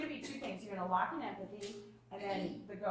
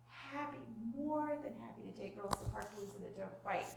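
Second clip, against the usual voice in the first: calm; 4 dB quieter than usual. Retold or imitated. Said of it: "I would calmly say".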